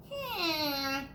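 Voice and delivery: a lightly voiced pondering dog; hint of a puzzled pup; dog thinking. A narrator's reading. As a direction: wonder aloud as Marley. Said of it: "thought Marley".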